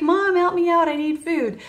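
ordinary talk

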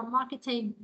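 British "marketing" with a clear t; British English, "mar-ke-ting"; British pronunciation. Shown as a demonstration. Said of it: "nếu mà giọng Anh".

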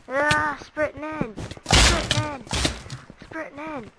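high, drawn-out battle call; excited high-pitched holler; charging cry. Real, not acted. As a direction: call it out while rushing in. Charging into the game fight.

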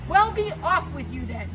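loud troll dismissal; troll letting the little goat go, loud; gruff troll. Acted. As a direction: wave him off like a grumpy troll.

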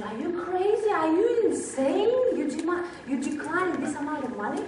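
mock astonishment at a crazy refusal; incredulous. Buyers to writer who declined the money, incredulous. Retells producers' disbelief at refusal.

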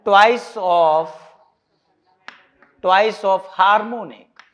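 twice of harmonic read out very slowly, word by word; slow demo reading. Shown as a demonstration. Teacher showing students how some people read it, slowly. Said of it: "इसको ऐसे भी पढ़ते हैं कुछ लोग".

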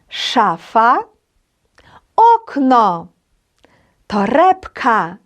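ШАфа, ОКно, тоРЕБка, each stressed on the next-to-last syllable; penultimate stress. Shown as a demonstration. Teacher showing learners where Polish stress falls, slow penultimate stress on Шафа, окно, торебка. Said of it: "завжди падає на передостанній склад".

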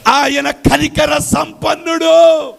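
high, loud, slow refrain; preaching shout. Acted. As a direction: stretch the line out at full voice. (బిగ్గరగా నెమ్మదిగా ప్రకటన)

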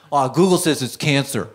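low dopey owner voice; mock worried owner. Man reports Google diagnosis, low and dopey.

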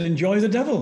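put-on Yorkshire accent. Exorcist to friend refusing the rosary, imitated Yorkshire accent. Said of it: "he said, in his Yorkshire".

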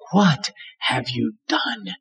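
slow, soft, grieving question; laced with pain. Shown as a demonstration. Preacher voicing God grieving over sin, slow and soft. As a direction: ask it slowly, full of grief. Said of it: "It's laced with pain".

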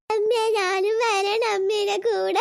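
put-on slow, drawn-out childish whine; whiny child. Little girl pleading with her mother to take her along, in a slow whine. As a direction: stretch every word like a begging toddler.

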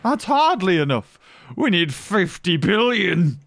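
high-pitched, play-acted indignation; hammed-up outraged complaint, voice pitched high; mock outrage. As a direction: protest the tiny budget in pretend disbelief. Mock protest to park owner over budget.

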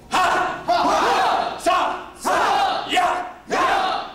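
very high, very loud kiai bursts; leading the class in short kiai shouts; short yells. Shown as a demonstration. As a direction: punch each yell from the gut. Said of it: "Short yell from the gut".

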